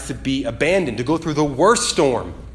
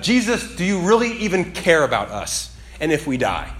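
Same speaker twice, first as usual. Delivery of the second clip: frightened cry; 3 semitones higher than usual. Retold or imitated. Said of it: "so afraid that it just comes out".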